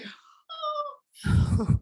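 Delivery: a caught-out little gasp of realization; embarrassed oh on being found out; sheepish oh. Retold or imitated. Realizing she is passenger Ivy.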